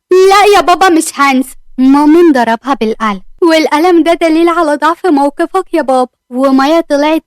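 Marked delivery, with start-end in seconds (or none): 0.1-1.5 defiant. Acted. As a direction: refuse him outright, voice raised. Daughter defies her father.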